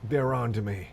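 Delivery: playful fake panic; mock alarm. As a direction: pretend you've been caught hacking. Pretend hacker in trouble.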